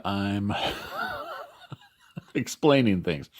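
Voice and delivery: words broken by a yawn; talking around a real yawn. Real, not acted. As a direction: yawn mid-sentence, then finish the thought. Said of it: "I'm yawning my head off".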